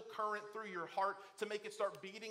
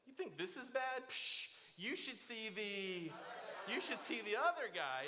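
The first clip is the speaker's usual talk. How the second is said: a breezy, swaggering brush-off, a touch higher; cocky joke demo; 3 semitones higher than usual. Shown as a demonstration. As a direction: sell the joke like you won the fight. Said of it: "just say this".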